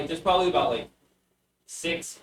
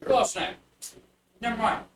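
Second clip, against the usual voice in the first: put-on higher, startled little-kid voice; a tiny thief caught out; bugbear child voice; 8 semitones higher than usual. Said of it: "a small little bugbear child".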